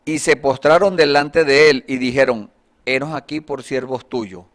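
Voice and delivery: loud, declaimed Bible verse, easing off at the end; projected reading of scripture. Acted. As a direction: read the verse out to the congregation. Reads the Bible verse aloud.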